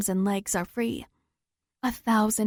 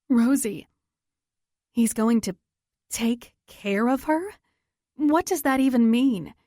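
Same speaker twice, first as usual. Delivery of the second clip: panicked; 3 semitones higher, 3 dB louder than usual. Acted. Panicked narrator voicing herself.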